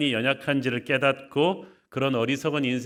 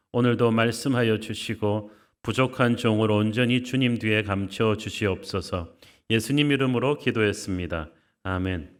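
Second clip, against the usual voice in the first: prayer; 3 semitones lower than usual. Real, not acted. Pastor leads opening prayer.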